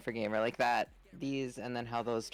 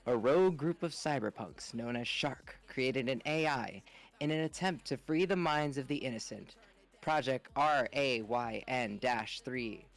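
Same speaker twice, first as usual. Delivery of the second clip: narrator voice. Acted. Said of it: "let me get my narrator voice going".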